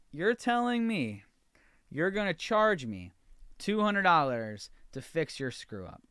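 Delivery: can't believe what he's hearing; outraged disbelief. Retold or imitated. To the airline rep over the phone, rising outrage. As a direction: pitch jumps up, slow and incredulous at first, then hammering it home. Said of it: "That was when I lost it".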